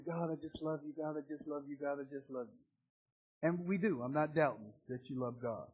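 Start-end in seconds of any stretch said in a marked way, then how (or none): 0.1-3.5 mock worship gush. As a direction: lightly imitate a churchgoer gushing in worship. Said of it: "we just praise and worship and we say".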